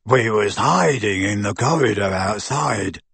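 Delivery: low, thick-witted henchman voice; grunting lackey. A narrator's reading. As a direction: grunt it like a dim thug. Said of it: "grunted Goyle".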